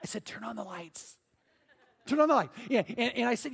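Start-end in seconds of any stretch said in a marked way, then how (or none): 0.2-1.1 very soft, understated retold advice; quietly stating the obvious; hushed deadpan. Deadpan answer to frightened callers. 2.1-2.5 higher, firmer repeat of the advice; insistent, pointing out the obvious; emphatic retold advice. Repeats the advice more forcefully.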